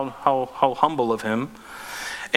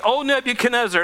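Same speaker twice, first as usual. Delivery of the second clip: bold address; 8 semitones higher than usual. Acted. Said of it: "they said to the king".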